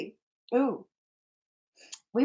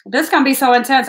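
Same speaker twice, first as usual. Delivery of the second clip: quicker, louder, hyped up; excited; 3 semitones higher, 6 dB louder, much faster than usual. Real, not acted. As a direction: pump up the hype for the sitter. Repeats it with more gusto.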